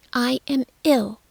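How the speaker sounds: put-on high loud screaming boy. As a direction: scream it at her. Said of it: "Colin screamed".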